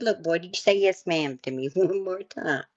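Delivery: loud stern scolding. Retold or imitated. Grandma scolding her grandson for sarcasm, loud and stern. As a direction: scold the boy, pissed off. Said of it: "it pissed me off".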